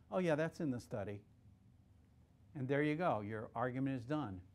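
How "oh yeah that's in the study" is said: offhand and unbothered, a touch softer; casual. Retold or imitated. Expert answering the cross-examiner, casually offhand. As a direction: toss it off like it's nothing. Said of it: "he just very casually goes".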